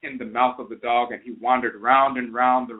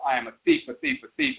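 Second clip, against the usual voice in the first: pleading dog; 13 semitones higher, faster than usual. Acted.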